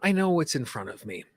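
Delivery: measured lead-and-repeat delivery with long pauses; guided tapping affirmations. Shown as a demonstration. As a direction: say each affirmation phrase by phrase, leaving room to repeat. Leads repeat-after-me tapping affirmations.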